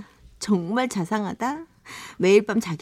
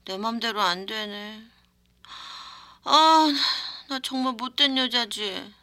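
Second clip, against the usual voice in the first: put-on drunk voice. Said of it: "술에 취한 목소리로".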